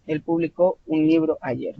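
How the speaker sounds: "publicó" with the beat on CÓ; pu-bli-CÓ, past tense; stress on last syllable. Shown as a demonstration. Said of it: "sílaba tónica al final".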